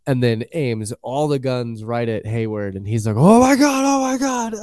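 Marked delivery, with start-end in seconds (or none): 3.2-4.5 much higher mock-panicked squeal of oh my God. Host imitating Hayward as Wanda aims guns, panicked squeal. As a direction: play a cowardly man suddenly cornered, squeaking.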